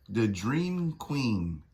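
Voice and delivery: drawn out and falling; slow grand title. Acted. Voicing the villain's grand title, slow and falling. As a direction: savour each word of the name.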